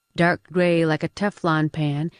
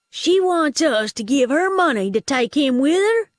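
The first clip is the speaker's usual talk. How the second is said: high-pitched, astonished question; incredulous; 9 semitones higher, 4 dB louder than usual. A narrator's reading. Sidekick astonished at her demand, incredulous. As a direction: repeat the demand in high disbelief.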